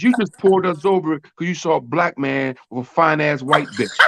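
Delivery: imitating her mouthing off at the cop; girlfriend cussing out cop. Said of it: "She go, she says".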